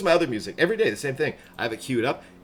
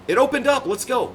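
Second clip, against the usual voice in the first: higher and louder, sudden joy; excited cheer; 11 semitones higher, 4 dB louder than usual. Real, not acted. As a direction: cheer as the game opens up. Game lobby opens, cheering.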